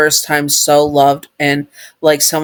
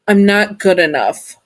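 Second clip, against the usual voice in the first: tearful; 4 semitones higher than usual. Acted. Distraught confession.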